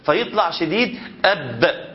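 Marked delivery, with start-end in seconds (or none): 1.2-1.9 slow أب with a tight, strong ب; firm b. Shown as a demonstration. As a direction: press the lips hard on أب. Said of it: "من صفة الباء الشدة".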